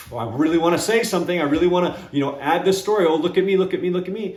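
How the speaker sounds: itching to jump in, fast and keen; eager to show off. Retold or imitated. Inner voice itching to tell his own story, fast and eager. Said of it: "it's almost like I'm holding a pit bull back".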